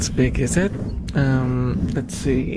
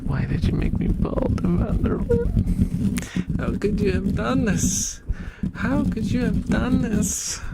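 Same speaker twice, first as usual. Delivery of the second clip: squeaky rat voice; 8 semitones higher than usual. Acted. Plush rat voiced complaining.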